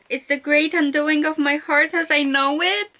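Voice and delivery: distraught wail rising toward the end; anguished quote reading. Acted. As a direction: read it as if heartbroken by it. Distraught at quote she reads out.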